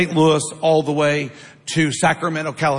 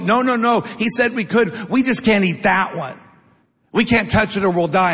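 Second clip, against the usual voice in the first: flustered Eve; 2 semitones higher than usual. Acted. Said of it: "Eve, like".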